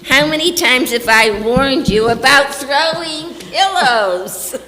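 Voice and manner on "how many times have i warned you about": scolding call. Acted. Mother scolds pillow-throwing twins.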